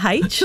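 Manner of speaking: H said as "haitch", with an h in front; mock Australian pronunciation. Co-host teasing people back from Australia, mock Australian pronunciation. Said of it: "come back with an accent".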